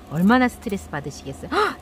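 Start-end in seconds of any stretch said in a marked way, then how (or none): 1.5-1.8 sharp high gasp of shock; a sudden mock gasp; startled gasp. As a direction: gasp as if hit by bad news.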